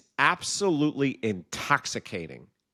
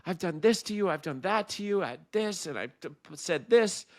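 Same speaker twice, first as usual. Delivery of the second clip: frustrated disbelief; 6 semitones higher than usual. Retold or imitated. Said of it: "finally he's like".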